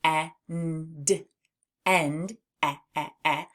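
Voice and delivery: "end" then repeated short "eh"; initial sound. Shown as a demonstration. Teacher isolates the opening sound of "end". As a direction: draw out the "eh" at the start of "end". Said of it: "in the word end".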